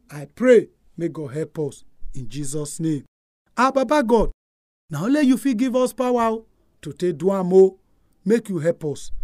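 fervent closing prayer. Acted. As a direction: pray it earnestly, then soften.

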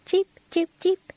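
high-pitched little chirps; quick, high cheeps. A narrator's reading. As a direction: imitate a small bird calling, nearer now. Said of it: "came louder and louder".

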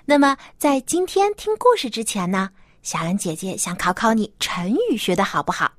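put-on bright host voice for kids; reading to a toddler. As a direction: talk gently to little children. Host talks to children.

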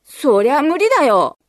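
put-on a boy snapping back at his sister; loud retort. A narrator's reading. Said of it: "大きな声で言い返しました".

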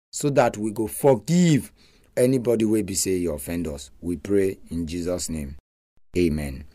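praying. Real, not acted. Leads a prayer.

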